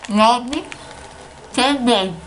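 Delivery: words lost in a full mouth. Real, not acted. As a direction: mumble through stuffed cheeks. Chubby Bunny with stuffed mouth. (boca cheia de marshmallow)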